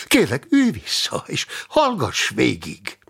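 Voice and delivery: pleading, starting high and dropping; insistent plea, high at first; earnest appeal. Acted. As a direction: urge him to hear you out. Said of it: "próbálta lelkére beszélni a másik".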